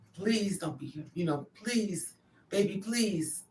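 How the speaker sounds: tearful pleading. Retold or imitated. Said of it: "You crying".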